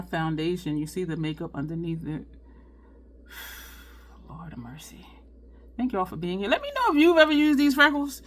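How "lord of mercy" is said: breathy sighed whisper to herself; exasperated whisper. Real, not acted. Vlogger failing at freckle stickers, muttering in an exasperated whisper. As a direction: let it out under your breath, defeated. Makeup test failing on stream.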